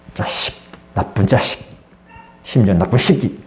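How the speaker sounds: low, hushed imitation of judgmental people cursing; hushed mock cursing; muttered insult. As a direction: mutter the insult under your breath. Mocking condemners' insult.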